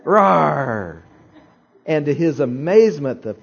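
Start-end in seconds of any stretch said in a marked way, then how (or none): 0.0-1.0 a smaller echo of the roar, louder than speech; echoing the little bear's roar for the congregation; softer bear roar. Shown as a demonstration. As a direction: roar again, held back a little. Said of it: "like this".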